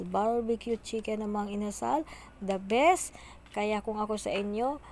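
talking while chewing; eating between words; mouth full. Real, not acted. Seen 4: Mukbang: she keeps picking at chicken, lips pursed, licking fingers.

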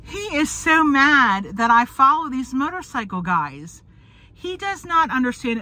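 holding back tears as she speaks; close to tears. Real, not acted. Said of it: "I'm not gonna cry saying this".

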